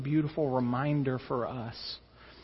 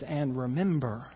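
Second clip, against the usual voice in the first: hushed closing promise; 3 semitones lower, 6 dB quieter than usual. Acted. Closing quiet promise quote.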